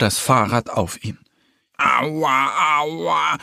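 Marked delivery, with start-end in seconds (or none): 1.8-3.4 mildly whimpered cry of pain; sniffling. A narrator's reading. Little bear has fallen under the bike, sniffling. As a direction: wail it lightly, like a hurt little bear. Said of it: "schnieft der kleine Bär".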